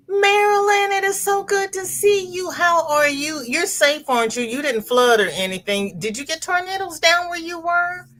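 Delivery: high excited greeting. Real, not acted. Greeting a viewer on the livestream.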